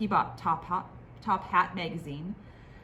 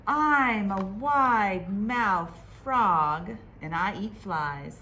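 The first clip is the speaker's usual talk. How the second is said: frog voice; 5 dB louder, slower than usual. Acted. Frog character voiced in story.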